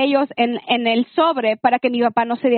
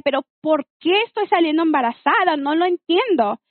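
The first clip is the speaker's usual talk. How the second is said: higher-pitched exasperated questioning; mildly angry and baffled, voice lifted; retold annoyance; 3 semitones higher than usual. Telling how she questioned her third pregnancy, mildly angry. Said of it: "Y yo estaba enojada".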